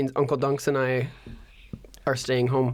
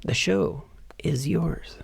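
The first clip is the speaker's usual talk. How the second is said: slow, whispered handover; ASMR whisper; slower than usual. Pretend. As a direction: whisper it slowly, ASMR style. Carries on the ASMR whisper demo.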